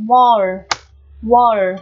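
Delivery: "wall" with a drawn-out open O; long vowel. Shown as a demonstration. Teacher modelling the last word, long O in "wall". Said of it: "nguyên âm đó sẽ đọc dài ra".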